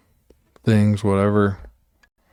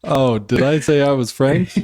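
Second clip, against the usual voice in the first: put-on higher-pitched, off-target French accent; botched French accent; 4 semitones higher than usual. Butler answers being told that's not French, botched French accent. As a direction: cover for a failed French accent in character. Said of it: "That's not French".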